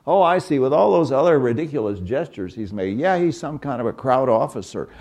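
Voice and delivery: lightly voiced confused soldiers; puzzled guards. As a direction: play the baffled captors working it out. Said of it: "I want them to think".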